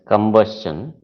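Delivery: combustion slowly, as kum-bus-chun; pronunciation demo. Shown as a demonstration. Teacher showing a class how combustion is pronounced, slow careful demo. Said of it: "it is pronounced".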